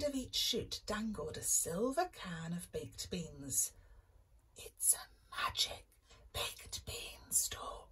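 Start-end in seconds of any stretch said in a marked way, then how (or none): 4.6-7.9 hushed excited whisper. Acted. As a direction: whisper it so mum stays asleep. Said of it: "Jack whispered to Bella".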